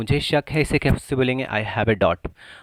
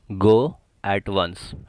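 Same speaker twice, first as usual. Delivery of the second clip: very slow, syllable by syllable; slow drill; much slower than usual. Shown as a demonstration. Teacher drilling the phrase for students, very slowly. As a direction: draw each word out for learners. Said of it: "तुरंत जाओ".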